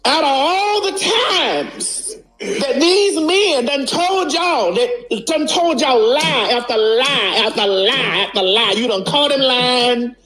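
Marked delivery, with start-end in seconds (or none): 0.1-8.7 laughing rant. Real, not acted. Mocking viewers through laughter. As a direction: laugh out the list of lies.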